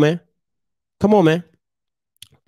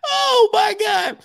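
high, slow, stunned exclaim; 12 semitones higher, slower than usual. Real, not acted. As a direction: drag it out in disbelief. Overwhelmed by photo.

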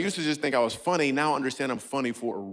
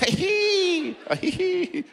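very high mock giggle like a stabbed gerbil; high squeaky giggle; much slower than usual. Comedian mimicking an audience member's laugh, high squeaky giggle. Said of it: "Sound like somebody stabbed a gerbil".

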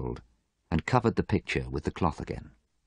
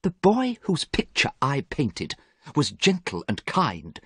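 higher, slow, sorrowful; wistful, acted sadness; sad; 8 semitones higher, slower than usual. A narrator's reading. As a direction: lament it slowly to a friend. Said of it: "said Basil sadly".

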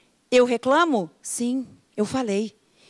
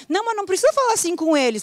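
mock husband correcting; 8 semitones higher, much faster than usual. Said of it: "o Fernando me orienta".

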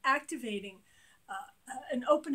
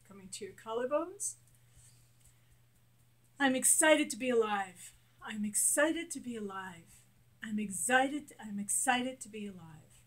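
guided affirmations. Shown as a demonstration. Coach leading a tapping exercise, steady affirmations. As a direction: lead the listener through each line.

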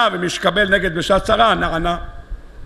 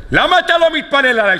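higher, acted challenge; indignant reproach; 6 semitones higher than usual. Rachel challenges Jacob over his prayer, acted indignant reproach. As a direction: throw the question at him in mock reproach.

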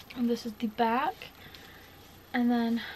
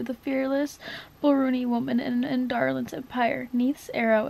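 reading a novel aloud, louder and livelier; dramatic reading; 3 dB louder than usual. Acted. Reading a favourite book to viewers, dramatic read-aloud. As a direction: read the passage like the big moment it is.

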